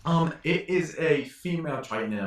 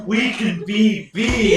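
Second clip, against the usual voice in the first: silly voice; 10 semitones higher, 11 dB louder, slower than usual. Acted. Silly voice, laughing.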